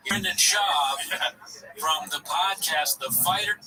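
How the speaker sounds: lightly put-on Scottish accent; a hint of a Scottish guy. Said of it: "give me a Scottish guy".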